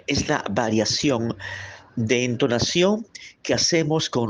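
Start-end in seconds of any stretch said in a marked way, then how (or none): 0.1-1.4 slowed and stressed; slow deliberate. Shown as a demonstration. Teacher repeating the definition slowly, stressed. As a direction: say it slowly for the class. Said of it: "escúchelo bien".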